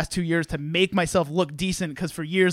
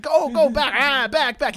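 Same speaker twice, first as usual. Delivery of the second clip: high, loud warding-off cries; hammed-up frightened shouting; mock fearful yelling; 7 semitones higher, 4 dB louder, slower than usual. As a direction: drive off a monster in mock terror. Employee warding off the monster.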